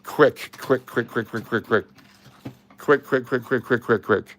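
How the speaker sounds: loud, urgent, rushed excitement; real excitement. Real, not acted. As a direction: hurry yourself, thrilled you found it. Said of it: "I got so excited there".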